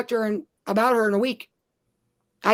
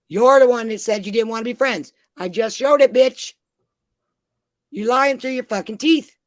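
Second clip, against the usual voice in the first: louder, heated rant at an absent rival; angry rant; 5 dB louder than usual. Real, not acted. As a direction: tell her off, real anger rising. Ranting at absent former friend.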